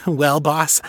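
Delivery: gleeful, perky boss. Acted. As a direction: say boss with glee. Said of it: "Clippy said gleefully".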